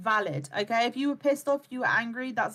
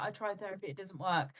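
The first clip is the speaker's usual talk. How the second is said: soft, lower defeated voice; mock deflated; 4 semitones lower, 8 dB quieter than usual. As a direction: mumble it like a disappointed client. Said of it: "they've been like".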